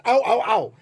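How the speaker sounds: high, laughing chipmunk squeak. Retold or imitated. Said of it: "the chipmunk translation is".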